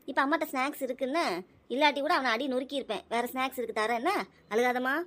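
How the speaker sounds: soft, reassuring mother; soothing. Acted. Mother consoling crying daughter over brother's snack, soothing. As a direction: gently talk a hurt child round.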